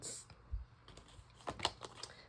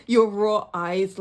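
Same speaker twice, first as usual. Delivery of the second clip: "your raw eyes" said through a laugh, a bit louder; laughing retake; 6 dB louder, slower than usual. Real, not acted. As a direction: laugh at yourself while repeating "raw eyes". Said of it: "I don't know why I need to say it like that".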